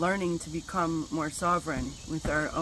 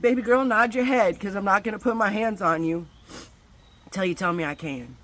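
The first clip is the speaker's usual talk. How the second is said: firm loving call; 3 semitones higher, 7 dB louder than usual. Retold or imitated. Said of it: "I said".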